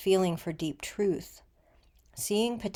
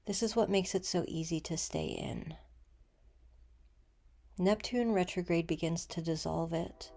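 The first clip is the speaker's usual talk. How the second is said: gentle meditation guide, unhurried with long pauses; guided meditation. Acted.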